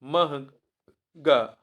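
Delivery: महंगा stretched very slowly for dictation; महंगा said in a long slow drawl; drawn-out demo. Shown as a demonstration. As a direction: draw out महंगा, each syllable held. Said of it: "शुद्ध नहीं है".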